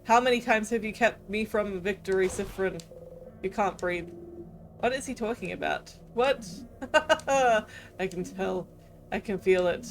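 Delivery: cold, gloating villain king voice; menacing king. Acted. Villain king taunting the trapped hero, menacing.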